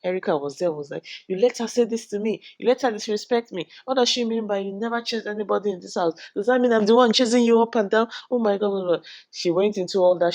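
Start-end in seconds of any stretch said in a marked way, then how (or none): 1.3-9.1 higher-pitched indignant rant; mock angry. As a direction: act out her outraged complaint. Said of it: "She got angry".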